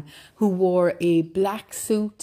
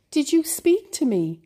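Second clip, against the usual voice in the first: surprised question; 9 semitones higher than usual. Acted. Hero surprised at talking cows.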